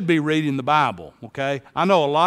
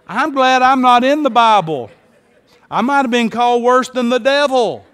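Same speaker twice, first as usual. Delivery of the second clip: higher, louder, laughing joke; laughing aside; 6 semitones higher, 6 dB louder than usual. Real, not acted. Pastor joking to congregation, laughing aside. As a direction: chuckle through it.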